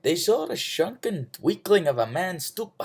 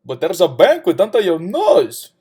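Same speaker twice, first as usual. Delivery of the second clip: raised, higher-pitched call; 4 semitones higher, 6 dB louder than usual. A narrator's reading. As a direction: call it out to a passer-by. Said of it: "the fool called out".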